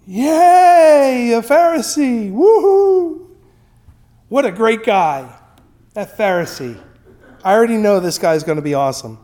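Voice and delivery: high, loud mock cheer for the Pharisee; crowd cheering. The crowd cheers the Pharisee as he enters, giddy. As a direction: play the crowd cheering a hero. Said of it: "and the people go".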